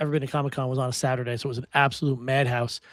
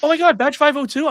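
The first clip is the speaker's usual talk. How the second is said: high, loud, starstruck squeal; excited fan squeal; 13 semitones higher, 8 dB louder than usual. Retold or imitated. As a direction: gush like a fan spotting her idol. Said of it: "all of a sudden she goes".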